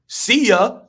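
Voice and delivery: dismissive brush-off. Retold or imitated. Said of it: "they're gonna be like".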